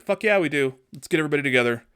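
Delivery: hyped-up mock battle cry; eager yes. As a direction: fire it up like a cocky pilot. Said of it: "this is a P G thirteen now".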